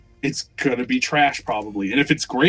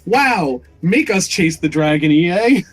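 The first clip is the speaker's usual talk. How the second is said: higher, sarcastic wow; mock amazement; 3 semitones higher, 4 dB louder, slower than usual. Player reacting to loot box trailer, mock amazement. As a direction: feign being dazzled by the publisher. Mocking the trailer's staged excitement.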